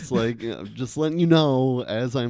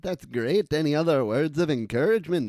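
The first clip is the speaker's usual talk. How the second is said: put-on Irish accent; 3 semitones higher than usual. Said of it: "Do that in your best Irish accent".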